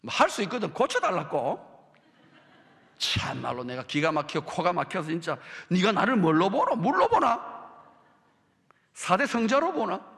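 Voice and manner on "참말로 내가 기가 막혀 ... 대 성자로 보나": Jesus voiced in broad Gyeongsang dialect, exasperated. Preacher voices Jesus as a Gyeongsang man, exasperated Gyeongsang dialect. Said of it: "이렇게 경상도 버전으로 한번 고쳐볼게요".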